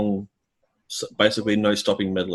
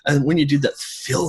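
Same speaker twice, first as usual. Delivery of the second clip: much higher, breezy mock praise; mock bandmate praise; 7 semitones higher than usual. Band reassuring the drummer after the set, high mock praise. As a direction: mimic the band shrugging it off cheerfully. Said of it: "It's like".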